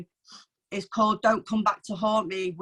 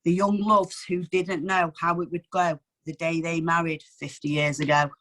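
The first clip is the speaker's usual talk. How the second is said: measured, heartfelt poem recital; reading an anniversary poem to the open mic, tender and measured. Acted. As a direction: read it like a gift to your parents. Reads her poem aloud.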